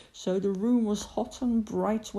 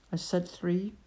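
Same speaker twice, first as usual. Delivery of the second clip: hushed. Acted. Jake's hushed reminder.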